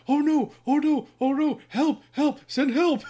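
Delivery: high, loud wailing imitation of a man calling for help; hammed-up cries for help, pitch leaping up; mock panicked cries. Imitating a driver dragged off by a cop, high mock-panicked yelling. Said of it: "you hear him go".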